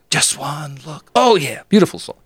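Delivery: crooning the title, way up high; dreamy high croon; swooning over song. Retold or imitated. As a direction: bask in the song like you're on top of the world. Singing along, savoring song.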